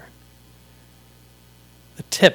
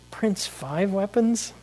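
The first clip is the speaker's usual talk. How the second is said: higher and slower, proudly; slow, high proud declaration; 7 semitones higher, 4 dB quieter, slower than usual. Acted. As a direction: draw out the name proudly. Hero proclaims his name.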